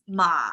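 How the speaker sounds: "ma" sliding down into low pitch; mistaken low tone. Shown as a demonstration. Teacher imitating how some draw it, sinking "ma". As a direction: let "ma" sink instead of staying level. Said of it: "some people draw the tone like this".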